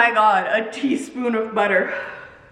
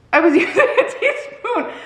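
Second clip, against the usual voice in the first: very high, laughing protest; exasperated repeat; 11 semitones higher than usual. Retold or imitated. Creator insists to commenters, high laughing exasperation. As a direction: repeat it in a squeaky, mock-desperate whine.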